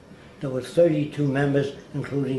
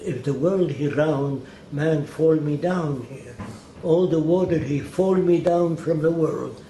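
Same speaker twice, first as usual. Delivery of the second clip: imitated Arabic accent. Elbaz insisting to the narrator the world is flat, slow imitated Arabic accent. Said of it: "I know his dialect".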